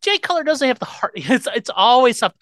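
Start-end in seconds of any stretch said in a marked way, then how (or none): 0.0-1.1 mocking disbelief. Mocking repeat of caller's take.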